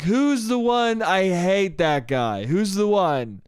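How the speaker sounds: mock drunk insistence, stretched at the ends; a hint of boozy whining; drunk man. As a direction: lightly act a drunk stranger complaining. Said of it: "he just said that drunkenly".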